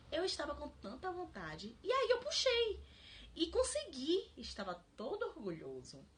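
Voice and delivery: lightly voiced little child, rising high in places; child's voice. Reading the book's child pleading with dad, in a light child voice. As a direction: read it as a small confused child. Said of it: "ela bota a vozinha da criança".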